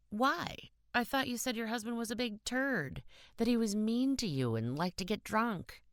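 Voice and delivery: can't believe what he hears; stunned disbelief. Acted. Stunned boy protests her choice.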